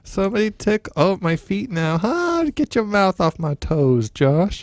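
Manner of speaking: high squealing laughter while tickled; being tickled. Pretend. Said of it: "doing some improv of you tickling me".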